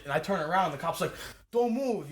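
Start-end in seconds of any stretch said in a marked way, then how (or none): 1.5-2.1 higher-pitched imitated cop order; retold police command. Cop stopping the driver as he turns, mock commanding. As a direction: act out a sudden order to freeze.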